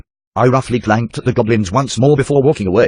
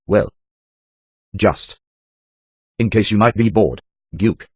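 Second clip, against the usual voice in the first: lightly voiced shy goblin girl; a hint of a coy goblin girl; slower than usual.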